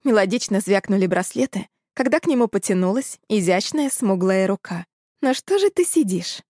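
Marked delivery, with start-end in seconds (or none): 5.2-6.4 high, coaxing cat-woman purr. A narrator's reading. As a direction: purr it out, teasing. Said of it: "мурлыкнула она".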